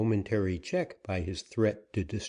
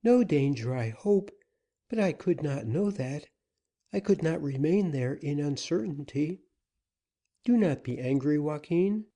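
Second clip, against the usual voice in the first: put-on higher, earnest young woman's plea; higher-voiced woman anxiously pleading; 6 semitones higher than usual. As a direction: soften him, she begs not to be scolded. Susana soothes Joaquin.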